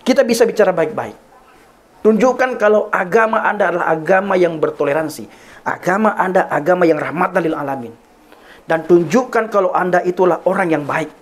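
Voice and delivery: measured, insistent firmness at moderate volume; firm retold reply. Pastor answering his angry neighbour, re-enacted firm appeal. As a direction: tell him firmly, pausing after the first command. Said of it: "menjawab dengan tegas".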